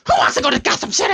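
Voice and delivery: brisk, rushed Joker question; quick taunt. Acted. Joker taunts, then repeats it.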